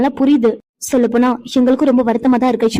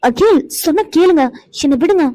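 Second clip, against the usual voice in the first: higher, coaxing plea; pleading whine; 4 semitones higher than usual. Acted. Wife pleads with teasing husband to let her go, high coaxing whine. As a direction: beg him to let go before she's seen.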